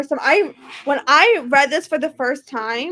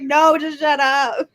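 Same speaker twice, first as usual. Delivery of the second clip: laughing; 5 dB louder, slower than usual. Retold or imitated. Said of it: "I was like".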